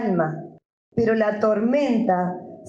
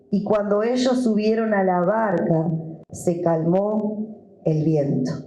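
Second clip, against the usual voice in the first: measured, deliberate Bible reading; scripture reading. Acted. Pastor reading the Gospel to his church, measured. Reads Bible passage aloud.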